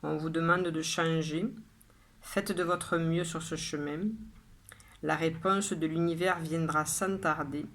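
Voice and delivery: measured poem reading with pauses after each line; poem recitation. Acted. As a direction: recite it line by line, evenly and deliberately. Reads the poem a third time. (lecture de poème posée, vers par vers)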